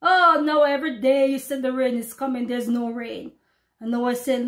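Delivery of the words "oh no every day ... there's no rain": mocking scoffer. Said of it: "but the mock".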